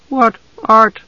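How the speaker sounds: put-on high, wary girl's question; suspicious. A narrator's reading. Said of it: "Usha was suspicious".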